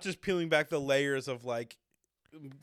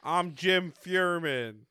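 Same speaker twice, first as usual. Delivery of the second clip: slow dramatic intro; much slower than usual. Shown as a demonstration. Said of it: "You wouldn't normally just pull out a random name".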